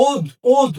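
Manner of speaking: ওদ, ওদ cut short and stressed, stopping hard on the d. Shown as a demonstration. Teacher shows the class the stop in ওদ, ওদ. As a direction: clip ওদ, ওদ off hard at the d. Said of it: "ওদ বলে আমরা থেমে গিয়েছি".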